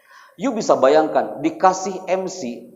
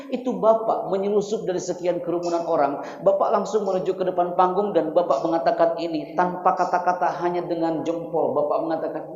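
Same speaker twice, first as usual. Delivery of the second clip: ordinary delivery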